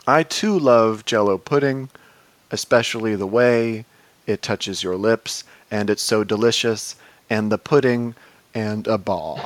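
slow, halting letter read-out; deadpan comic recital of a letter; mock letter reading. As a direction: read it in short phrases with long pauses.

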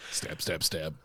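low, toneless rapid jabs; muttered mock stabs; spoken stabbing effect. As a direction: mime stabbing with clipped words under the breath. Voicing the claw jabs.

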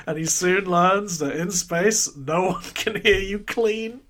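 ominous movie trailer narrator; horror trailer voice. Pretend. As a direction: sell it like a sci-fi horror tagline. Parody of the Alien tagline.

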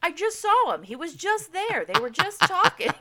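high, loud mock wail; retold ugly crying. Grieving a TV character just seen alive, mock wailing. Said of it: "I'm just full on ugly crying".

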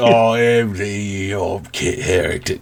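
slow, badly faked British accent; failed British accent. Shown as a demonstration. Podcaster testing a British accent that won't come, botched British. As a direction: grope for British vowels, dragging them out. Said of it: "to do a British accent".

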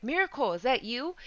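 retold yell, light and high; mock calling out. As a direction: call a name from afar without real volume. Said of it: "He's yelling my name".

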